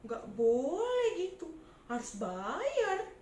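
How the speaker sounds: loud demanding tax collector; greedy tax collector shouting at a poor trader; bossy bully. Acted. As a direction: bark orders at the trader, grabbing her money.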